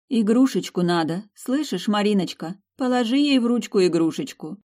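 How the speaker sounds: lightly voiced shaman urging gently; a hint of a coaxing shaman. Shaman speaks to heroine.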